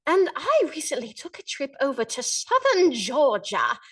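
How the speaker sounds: a lightly put-on British accent, playing a posh Londoner; genteel British lady reviewing a restaurant, unhurried. For a podcast host, a mild British accent for a wing ad. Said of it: "I can do a pretty decent British accent".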